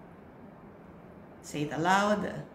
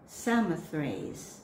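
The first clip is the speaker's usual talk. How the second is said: slow careful pronunciation; 2 semitones lower, slower than usual. Shown as a demonstration. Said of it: "read it slowly".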